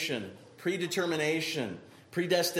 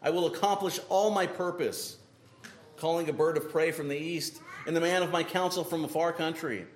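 scripture reading. Acted. Preacher reads Isaiah aloud.

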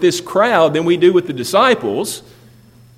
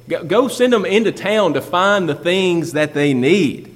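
annoyed disciples; 4 semitones higher than usual. Retold or imitated. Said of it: "the annoyance in their voice".

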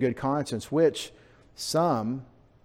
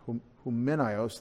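softer "Humenios", leaning on the E; stress on E; 2 semitones lower, 6 dB quieter than usual. Shown as a demonstration. Preacher shows where the accent falls, stress on E. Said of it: "The E gets the accent".

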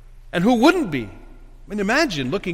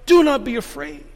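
higher, firm "Do not be afraid"; emphatic; 8 semitones higher, 4 dB louder than usual. Acted. Angel to the women at the tomb, emphatic. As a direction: press each word of "Do not be afraid". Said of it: "is very emphatic here".

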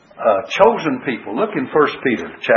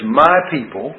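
emphasize "My", then "people"; stress on MY. Shown as a demonstration. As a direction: lean on "My" as the key word. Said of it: "emphasis is upon the word "my".

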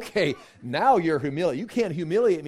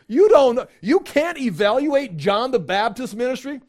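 much higher and louder, laughing in disbelief; can't believe what he's hearing; incredulous outburst; 9 semitones higher, 9 dB louder than usual. Acted. Jesus incredulous at the priests.

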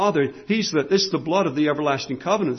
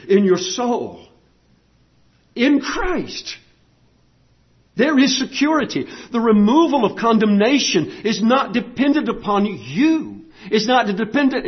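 firm preaching with punched key words; sermon delivery, deliberate and insistent; emphatic preaching; 3 semitones higher than usual. Real, not acted. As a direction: drive each point home to the congregation.

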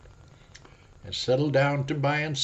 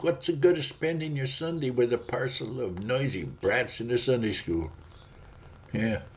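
devil tempting; 3 semitones higher than usual. Acted. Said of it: "To you he'll say".

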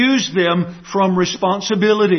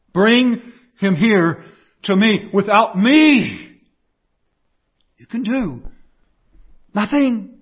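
slow, louder and firm; slow firm Jesus; 3 semitones higher, 3 dB louder, slower than usual. Acted. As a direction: lay down each word like a promise. Jesus commanding.

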